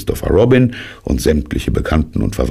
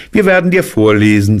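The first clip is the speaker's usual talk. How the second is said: vergnügt; 7 semitones higher, 6 dB louder, faster than usual. Acted. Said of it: "sagte Kaninchen vergnügt".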